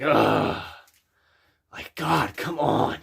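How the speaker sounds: weary groaning ugh; exasperated groan. Shown as a demonstration. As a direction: groan like after a long day. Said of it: "That's the sound you wanna go for".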